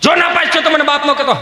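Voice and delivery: high-pitched, ringing warning; father's warning. Acted. Father warning son about exam result, ringing out. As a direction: call it out so that it echoes. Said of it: "પડઘા મળ્યા પડવા".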